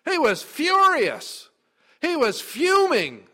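fiery preacher's shout; furious. Acted. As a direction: blast out the fury, high and loud. Preacher stresses Cain's rage.

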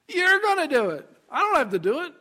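high, loud burst of discovery; acted elated breakthrough; delighted realization. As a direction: exclaim it as it finally clicks. Moses joyfully grasps it.

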